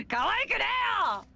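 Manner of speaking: high, pouty protest; mock protest. To the partner who calls her cute, a pouty protest. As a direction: huff back at being called cute.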